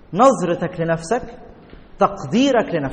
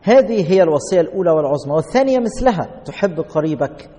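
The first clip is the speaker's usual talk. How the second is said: scripture reading. Acted. Reads scripture aloud.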